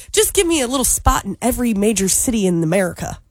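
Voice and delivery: put-on a light Southern accent. Co-host daydreaming about billionaire life, lightly Southern. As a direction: drift into a lazy Southern accent. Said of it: "why did you put that accent on".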